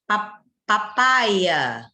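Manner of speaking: papaya drawn out very slowly, syllable by syllable. Shown as a demonstration. Teacher slowly sounding out papaya for students, deliberate.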